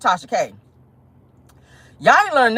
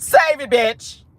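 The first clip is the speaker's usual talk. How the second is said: mock dismissive retort; a rapper. The rapper refusing Tasha's plea, mock dismissive. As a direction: shut down the plea, lightly acted. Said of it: "she was like".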